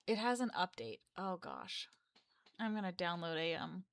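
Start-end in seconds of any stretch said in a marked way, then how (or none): 1.2-1.9 unvoiced, much softer sigh of words; whispered to herself. Real, not acted. Vlogger worried about an update, whispering to herself. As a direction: breathe it out under your breath. Muttering over a software update.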